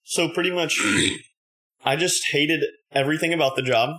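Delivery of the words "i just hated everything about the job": a burp catching the words. Real, not acted. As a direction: talk through a small burp. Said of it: "Sorry, I had to burp".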